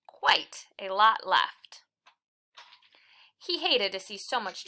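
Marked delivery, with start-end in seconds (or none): 0.1-1.8 slow, hushed storyteller's whisper. A narrator's reading. Reading Harold's story to children, a slow hushed whisper. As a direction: drop to a secret whisper for the leftover pie. Storybook aside to young listeners.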